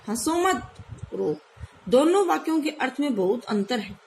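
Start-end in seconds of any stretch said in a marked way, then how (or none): 0.1-1.4 slow, stress on मत; हंसो मत, then रो slowly; pause after मत. Shown as a demonstration. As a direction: stress मत, break before रो. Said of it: "दूसरे वाक्य में कहा गया है".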